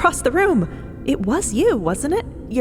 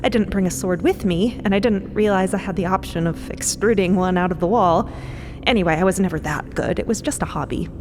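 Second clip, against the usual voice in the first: awkward, self-deprecating brush-off; embarrassed; 3 semitones lower than usual. Acted. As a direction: play it down with cringing embarrassment. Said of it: "Cleo seems really kind of embarrassed".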